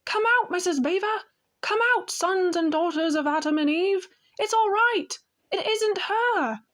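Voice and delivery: high, eager calling out; bursting with relief and joy; excited beaver. A narrator's reading. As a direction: Mr Beaver calling his family from the cave, excited. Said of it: "that is how beavers talk when they are excited".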